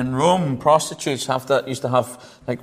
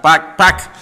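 laughing; 5 semitones higher, 10 dB louder than usual. Real, not acted. Laughing, pulling himself back on track.

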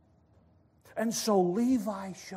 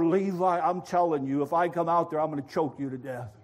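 mock-angry raised voice; frustrated holler; 6 dB louder than usual. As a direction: threaten the pest outside, fed up. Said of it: "He hollers a little bit louder".

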